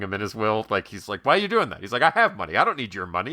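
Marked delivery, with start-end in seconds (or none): 1.2-1.8 high, pitched-up mock yell; mock screaming argument. Larry David yelling at Richard Lewis about the will, high mock yell. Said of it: "they end up screaming back and forth". 2.0-3.3 mock screaming argument. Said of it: "they end up screaming back and forth".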